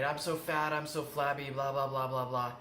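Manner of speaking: loud, whiny self-bashing; negative self-talk tone. Shown as a demonstration. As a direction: demonstrate the inner critic putting yourself down. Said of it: "That tone of voice is very".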